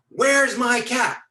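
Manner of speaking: slow, loud, high-pitched shout; big guy's drawn-out angry roar; acted furious demand. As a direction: bellow it down at him, dragging the words. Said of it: "he got really more pissed".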